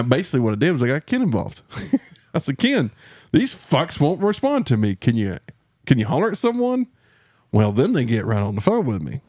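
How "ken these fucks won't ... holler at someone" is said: high, whiny plea for help; begging Ken to step in; mock pleading. To Ken about the insurers, a high whiny plea.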